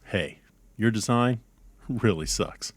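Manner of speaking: deadpan announcer reading a parody PSA; mock public service announcement. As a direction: read it like an earnest public service spot.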